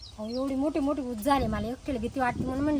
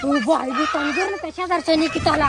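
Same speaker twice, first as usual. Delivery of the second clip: much louder, urgent cry for help; alarmed shout; 8 dB louder than usual. Acted. Woman alerts her husband to the seized neighbour, alarmed shout. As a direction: raise the alarm at full volume.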